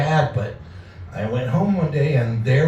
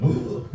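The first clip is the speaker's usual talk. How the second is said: coma sounds; 6 semitones lower, 3 dB quieter than usual. Retold or imitated. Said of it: "making coma sounds".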